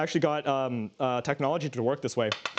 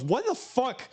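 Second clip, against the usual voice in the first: imitating upset gamer; 8 semitones higher than usual. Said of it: "someone gets upset and goes".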